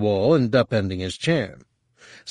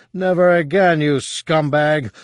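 grind it out in fury; furious; 6 semitones higher, 4 dB louder than usual. Acted. Han strangling his cousin.

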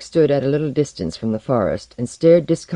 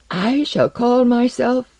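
grand announcement cut short; 11 semitones higher, 3 dB louder, slower than usual. A narrator's reading. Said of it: "He halted in terror".

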